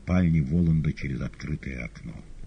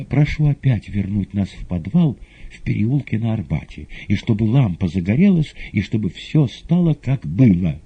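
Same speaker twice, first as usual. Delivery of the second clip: passionate plea; 6 semitones higher, 8 dB louder than usual. Acted. Маргарита просит Воланда.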